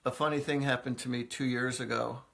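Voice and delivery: a light take on deadpan Steve Wright, unhurried and dry; droll comedian impression. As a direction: tell it totally straight, like the joke isn't a joke. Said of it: "he talks like this".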